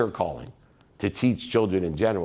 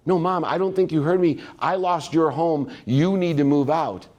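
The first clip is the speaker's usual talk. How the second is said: tearful pleading; 7 semitones higher than usual. Retold or imitated. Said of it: "they're hysterically crying".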